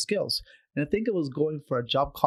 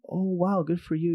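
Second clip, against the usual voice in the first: put-on "oh, wow" admiration; mock amazement; 4 semitones higher than usual. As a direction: imitate someone patronizingly impressed. Mimics patronizing reaction to her.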